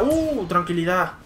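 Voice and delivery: slow, stretched tranquilidad; drawn-out calm. Real, not acted. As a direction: draw out the word calmly.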